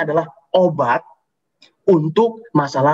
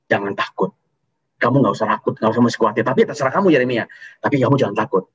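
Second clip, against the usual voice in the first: gentle comfort; 5 semitones lower than usual. Acted. God comforting hesitant Jeremiah.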